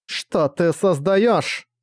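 slow, high, trembling question. Acted. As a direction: ask it shaking with dread. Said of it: "дрожащим голосом спросила Линка".

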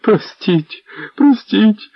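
high, desperate begging; a villain crawling at the boots, pleading high and shrill; grovelling plea. Acted. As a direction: grovel and beg for pardon. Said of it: "підповз до Іванкових ніг".

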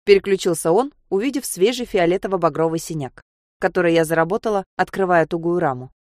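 plain reading voice

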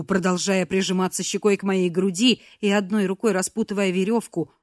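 ordinary delivery

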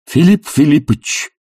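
a touch of fiery sincerity; sincere exclamation. A narrator's reading. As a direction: plead with sincere fervour. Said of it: "искренно воскликнул пламенный Барменталь".

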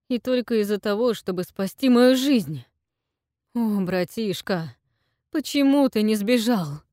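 high, loud anguished lament; anguished self-reproach; grieving outcry. Acted. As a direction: rail at yourself in grief. Grieving monologue about brother.

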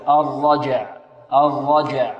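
"الرجع" with a bounced j, then a still ayn; clear final consonants. Shown as a demonstration. Teacher demonstrating two silent letters meeting, careful articulation. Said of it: "ويبين الحروف".

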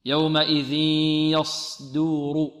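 slow chanted يومئذ يصدر; ترتيل صحيح. Shown as a demonstration. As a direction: recite يومئذ يصدر slowly as the reading gives it. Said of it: "في رواية الإمام". (تلاوة بطيئة مجودة)

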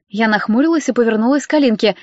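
ordinary delivery

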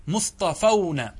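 مصطفون drawn out with a falling end; slow model word. Shown as a demonstration. Teacher spelling out the nominative plural slowly. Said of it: "هذا بالرفع".

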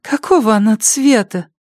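high, eager addict voice; junkie voice. Acted. Junkie asks doll colour.

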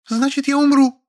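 high female character voice, whiny; Lilya, petulant. A narrator's reading. Lilya pleading with the narrator, high and petulant. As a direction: play the pouting woman, pitched high. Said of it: "вздёрнула подбородок Лиля".

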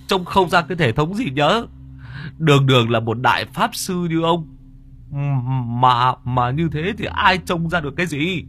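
high, indignant bluster; shrill-pitched angry tirade, building up; ranting old man. Acted. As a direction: puff up and rant like a wounded pride. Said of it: "ngoạc mồm".

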